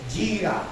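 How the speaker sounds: "gira" accented on the closing A; stress on final syllable. Shown as a demonstration. Preacher naming the holy fear, "gira" stressed on final A. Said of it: "con acento en la A".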